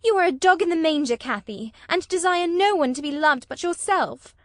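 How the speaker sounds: put-on angry girl accusing Catherine of jealousy; heated outburst. A narrator's reading. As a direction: fling the accusation at her. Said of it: "kindling up".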